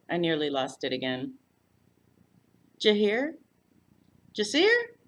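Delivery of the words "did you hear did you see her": rising, high South Texas eagerness; eager Texas gossip. A narrator's reading. Floy's voice.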